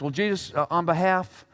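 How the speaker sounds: a timid wounded Pharisee asking for an apology; hurt, halting, self-righteous; mock spokesman. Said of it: "one of the wolves walks out and says this".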